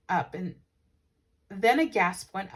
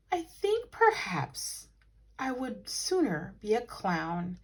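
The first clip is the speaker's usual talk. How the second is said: dreamily; slower than usual. Acted. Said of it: "he said dreamily".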